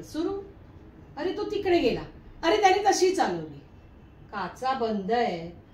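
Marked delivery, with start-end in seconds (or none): 1.2-3.6 higher, louder mimicry of a ranting car passenger; mock yelling. Wife mimicking husband's rants at drivers from the car, mock yelling. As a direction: imitate his yelling at other drivers. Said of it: "कशाला ओरडायचं?".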